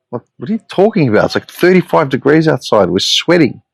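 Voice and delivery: high, fast disbelief; stunned that anyone could feel cold; incredulous. Real, not acted. Scoffing at the couple's complaint, high and incredulous.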